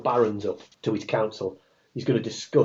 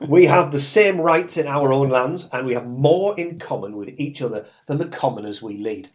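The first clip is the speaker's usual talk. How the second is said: Joe Pasquale voice; 2 semitones higher than usual. Acted. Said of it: "in his Joe Pasquale voice".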